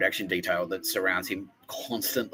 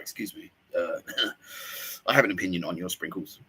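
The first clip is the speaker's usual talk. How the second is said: mock prissy caller; 3 semitones lower than usual. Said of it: "ringing up ... going like".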